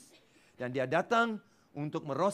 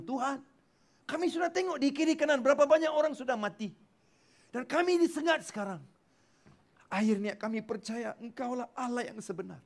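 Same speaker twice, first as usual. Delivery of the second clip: pleading sinners; 7 semitones higher than usual. Retold or imitated. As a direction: voice the stung crowd begging, pitched up. Sinners crying out to God.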